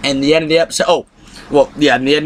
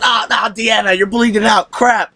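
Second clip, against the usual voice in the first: mock panicked outcry, pitched higher; mock alarm; 7 semitones higher than usual. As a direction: cry out in fake horror at the wound. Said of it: "I said".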